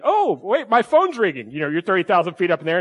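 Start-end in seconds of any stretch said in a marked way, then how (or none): 0.0-1.5 higher, louder mock panic; hammed-up seatmate faking a call; mock flustered excuse pitched high; fake excuse. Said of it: "most people are like".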